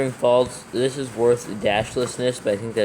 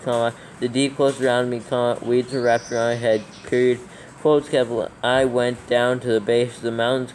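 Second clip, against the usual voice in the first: dictating. Acted. Dictating scripture with punctuation.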